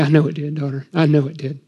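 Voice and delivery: 温柔轻声安慰女儿; soft, gentle, fighting tears; tender comfort. Acted. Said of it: "I can get a little bit weepy".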